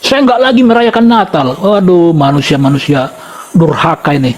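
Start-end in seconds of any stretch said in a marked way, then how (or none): 0.0-1.5 mock foolish declaration. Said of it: "dengan kebodohannya berkata lagi".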